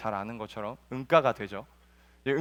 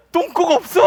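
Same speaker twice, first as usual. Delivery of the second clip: high, loud shout of joy; a shrill happy shout; gleeful cry; 11 dB louder than usual. Acted. Mouth finds bottom gone.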